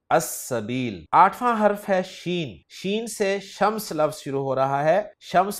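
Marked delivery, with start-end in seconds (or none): 0.1-1.1 अस्सबील said as-sabīl with a doubled s; अस्सबील: held double s, lam silent; Arabic article demo. Shown as a demonstration. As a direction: drop the l in अस्सबील. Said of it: "तो लाम को नहीं पढ़ा जाएगा".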